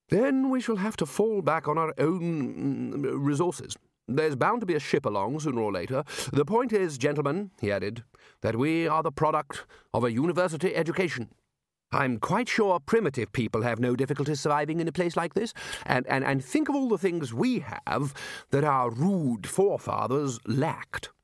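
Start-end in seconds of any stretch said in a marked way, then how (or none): 0.1-7.5 higher, measured leader's address; rally them, drawing out key words; Ridcully, rallying. Acted. Ridcully tells gentlemen to use their own resources, rallying. 8.4-21.1 lightly voiced speech-maker, higher pitch; Ridcully, rallying. Ridcully praises their university education to gentlemen, rallying.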